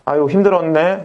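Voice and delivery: lightly acted sympathy; a little sigh of comfort, as to someone worn out; 공감하는 말투. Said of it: "그냥 공감해 주려고 노력만 해줘도". (다독이듯 공감하는 말투)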